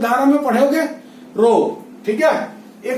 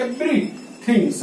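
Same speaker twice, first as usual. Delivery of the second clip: "everything" stretched very slowly and softer; slow emphatic repeat; 5 dB quieter, much slower than usual. Shown as a demonstration. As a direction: draw out every syllable of everything. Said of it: "everything पढ़ना है बेटा". (everything धीमे, खींचकर दोहराएँ)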